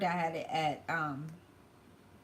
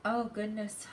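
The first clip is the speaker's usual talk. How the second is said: tearful; 3 semitones higher, slower than usual. Real, not acted. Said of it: "I did not mean to cry like that".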